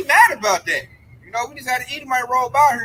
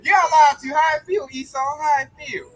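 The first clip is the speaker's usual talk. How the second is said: taunting shout; 3 semitones higher, 4 dB louder than usual. Retold or imitated. Taunting Esau.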